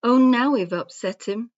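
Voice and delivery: worried. A narrator's reading. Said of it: "they all said".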